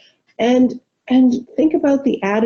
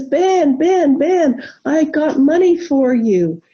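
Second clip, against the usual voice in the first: excited calling; 5 semitones higher, slower than usual. Retold or imitated. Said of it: "and she says".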